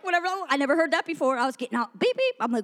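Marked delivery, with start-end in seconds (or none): 2.0-2.3 higher mimicked scanner beeps; imitated machine beep. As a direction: beep high like a ticket machine. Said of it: "made a noise like that".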